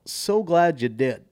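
high, slow mock-eager gush; gushing flip. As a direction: switch suddenly to over-delighted gratitude. Retold gushing reply to club owner.

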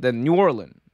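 "New Orleans" said the standard way, all syllables. Shown as a demonstration. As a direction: say "New Orleans" in full, neutral. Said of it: "some people say it like that".

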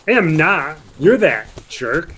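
loud, indignant yell; angry shout. Acted. Younger brother yells back at his teasing brother, loud and indignant. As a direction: shout him down, offended. Brothers bickering, accused of snoring.

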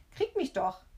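high, teasing dare; mocking lift in pitch; jeering. A narrator's reading. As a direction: jeer like a cheeky boy. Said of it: "höhnt er".

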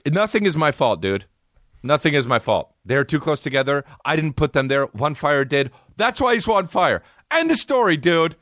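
high-pitched, insistent excuse-making; defensive protest. Acted. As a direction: protest your innocence in a high voice. Mock defensive rant, refusing blame.

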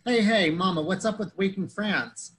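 lightly voiced impression of a woken friend; Franz. Retelling Franz waking up, imitated complaint. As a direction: imitate a big oaf, high loud start, slowing down. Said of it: "So Franz wakes up and says".

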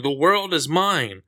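drawn-out villain's cry, half-shouted; mock villain shout. Host reads the villain's cover line, mock shouting.

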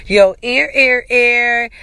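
echo effect. Acted.

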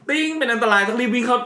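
playful alarm about the watch; laughing mock alarm. Mimics watch alert, laughing. (เตือนภัยแบบขำๆ เสียงสูง)

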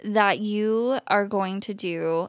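lightly drawn-out celebrity drawl; slow, drawling excitement; Kourtney Kardashian. Real, not acted. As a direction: stretch the words out slowly, gushing. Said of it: "I sound like Kourtney Kardashian".

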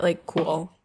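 deadpan sarcastic aside; low-key, offhand sarcasm. Shown as a demonstration. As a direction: say it dryly, not meaning it. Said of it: "anything in a sarcastic kind of a way".

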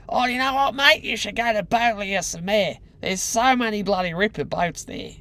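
hammed-up Australian accent, high and loud. Australian guy tipping off a mate about boats, hammed-up Australian accent. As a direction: put on a broad, high-pitched Australian voice. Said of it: "it was very Australian".

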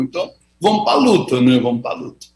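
talking while chewing; mouth full. Real, not acted. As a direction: speak through a bite of food. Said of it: "eu tô comendo".

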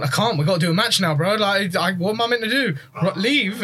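mock helpless excuse. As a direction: play innocent, voice up high. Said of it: "I've gone".

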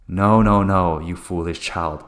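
slow, low stern mother voice; wicked stepmother. Retold or imitated. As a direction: talk down to a foolish child. Mom's reply, slow and stern.

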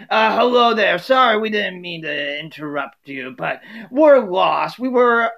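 a lightly voiced, apologetic Dorothy; Dorothy asking a stranger for a map; Dorothy asking directions.

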